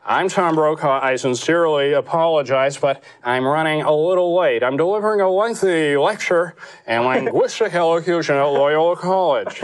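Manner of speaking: lightly voiced Brokaw on an answering machine; a hint of Brokaw leaving a polite message; mild Brokaw impression; Tom Brokaw. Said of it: "Imagine getting his answering machine".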